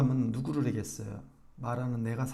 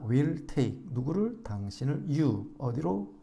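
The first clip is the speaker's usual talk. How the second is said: ordinary talk, nothing marked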